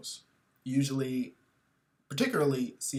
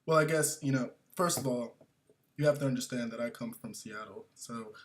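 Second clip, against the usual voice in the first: coffee snob air; 3 semitones lower, 5 dB quieter, faster than usual. Retold or imitated. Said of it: "air of sophistication".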